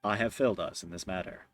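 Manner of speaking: low, subdued game-character voice; low, quiet, solemn apology; apologetic metal ally. Acted. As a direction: apologize formally as a metallic companion, softly. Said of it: "gives you a, uh, metallic shrug, uh, and goes".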